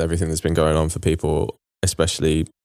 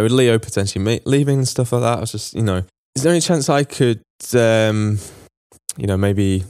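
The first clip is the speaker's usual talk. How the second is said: 1 timid hesitant ask. Retold or imitated. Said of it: "You can just imagine".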